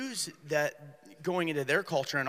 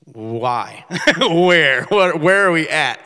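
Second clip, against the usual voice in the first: put-on bewildered kids; 14 dB louder, much slower than usual. Kids balking in the projects.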